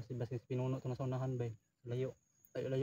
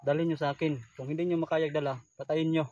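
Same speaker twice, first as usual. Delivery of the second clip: lightly voiced commander, louder; commander giving orders; 6 dB louder than usual. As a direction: pass on a commander's threat with some force. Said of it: "sinabihan niya".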